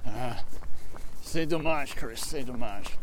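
put-on sympathetic French phrase in French accent; lightly played French. Teasing co-host who knows no French, French accent. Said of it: "I'm glad you know French".

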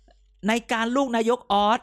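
slow, drawn-out mock reading of "ในการลูกนายกออส"; sarcastic slow quote of a campaign poster; mocking sign read. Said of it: "ถ้าเกิดยังต้องเขียนว่า".

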